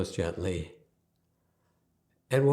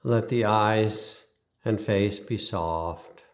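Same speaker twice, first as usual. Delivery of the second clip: guided meditation. Acted. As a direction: ease them into stillness, leaving space after each instruction.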